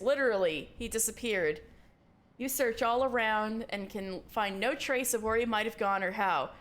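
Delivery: ordinary talk, nothing marked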